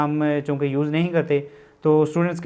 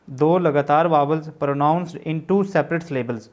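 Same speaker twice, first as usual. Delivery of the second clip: slow dictation; much slower than usual. Shown as a demonstration. Reads theory slowly for notes.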